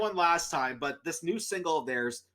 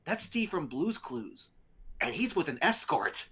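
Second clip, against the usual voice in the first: stranger's remark; 3 dB quieter than usual. Retold or imitated. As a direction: murmur it like nosy gossip. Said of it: "and he goes".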